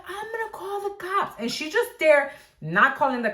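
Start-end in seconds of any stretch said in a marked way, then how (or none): 0.1-1.4 high, slightly softer threat; a lighter take on the shrieking lady; angry lady. Retold or imitated. Angry lady quoted in argument.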